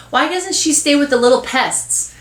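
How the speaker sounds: put-on high, complaining kid voice; indignant boy. Boy objecting to sharing with cousin, indignant. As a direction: protest the unfair arrangement.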